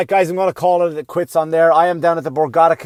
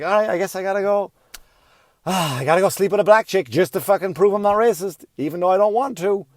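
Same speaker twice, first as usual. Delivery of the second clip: lightly voiced grudging young man, a bit higher; reluctant son; 5 semitones higher than usual. Son grumbling that he must prove himself, lightly voiced and grudging. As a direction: sigh it out like a resigned kid. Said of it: "He's like".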